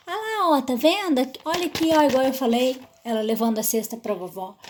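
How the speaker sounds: jab at the page, talking over the story; the wrong way, explaining the picture; over-explaining to kids. Shown as a demonstration. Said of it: "Explicar o que você leu".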